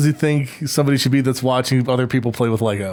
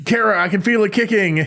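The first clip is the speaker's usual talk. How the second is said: higher-pitched mock excited fan; gushing fan; 5 semitones higher than usual. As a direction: imitate an eager stranger fussing over someone. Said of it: "people would have been like".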